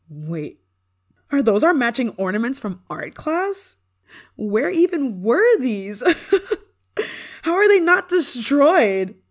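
high, loud, laughing disbelief; delighted shock. Acted. To her old friend, shocked to find their childhood ornaments. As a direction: squeal it out, amazed and laughing.

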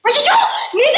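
high, loud startled yelp with a laugh; a sharp yelp, caught by surprise; startled cry. Acted. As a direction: cry out in sudden fright. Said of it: "ஏன் கத்துற?".

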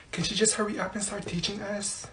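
very soft impatient aside; hushed complaint. Acted. Student to classmate about the teacher, hushed impatient complaint. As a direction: grumble it so the teacher can't hear.

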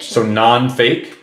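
drawn out slowly, puzzled; slow puzzled question. Real, not acted. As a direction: stretch it out as if working it out. Mulling over nonfiction.

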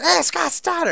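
high, loud hail across a distance; calling out. Retold or imitated. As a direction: call out his name to catch him. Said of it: "he's like".

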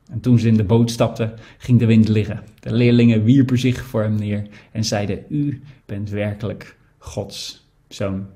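measured, expressive Bible reading to the church; scripture reading. Acted. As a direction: read the passage with feeling, letting each scene land. Reads Matthew 14 aloud. (voorlezen uit de Bijbel, expressief)

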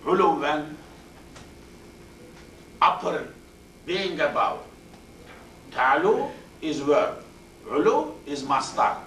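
teacher stressing the emphasising noun; emphatic teaching. Shown as a demonstration. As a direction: call out uluwan and upper firmly. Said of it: "That makes another emphasis".

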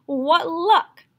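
sudden high, loud cry of delight; the cook spots a free chicken for soup, thrilled; excited cook. A narrator's reading. Gleeful exclamation. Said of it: "The cook who saw him said".

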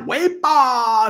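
a quick high-pitched Lep imitation; Leprechaun impression. Shown as a demonstration. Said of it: "Do your best Lep impression".

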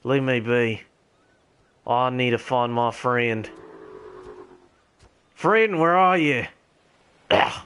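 put-on gamer holding a posh English RP accent. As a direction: stay in a lightly done British RP voice. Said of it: "I should have chosen a different accent for my, for my R P character".

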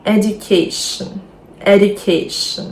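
"Education" with stress on CA; edu-CA-tion, ending said "shn"; stress before -tion. Shown as a demonstration. Teacher modelling the rule for learners, stress on CA in "Education". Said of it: "наголос падає на попередній перед цим закінченням".

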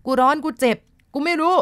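high, loud, strange voice babbling in pain; possessed stammering cry. A narrator's reading. Possessed girl cries out under the healer's foot, high and loud. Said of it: "มีแต่เสียงละล่ำละลักหลุดออกมาจากปากของน้อง".

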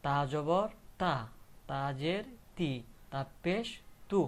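slow drill with long তা, তি, তু; spelling-out drill. Shown as a demonstration. Teacher showing learners ta with three marks, spelling-out drill. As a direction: spell out the mark, then hold তা, তি, তু. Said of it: "তাহলে কি হবে".

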